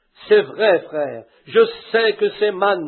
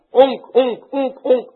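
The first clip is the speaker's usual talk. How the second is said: mock duck honk; 4 semitones higher, slower than usual. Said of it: "il dit".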